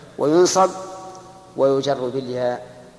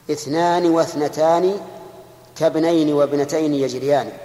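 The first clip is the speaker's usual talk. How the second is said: recited verse. Shown as a demonstration. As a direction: chant the verse line with care. Teacher quotes the Alfiyya verse.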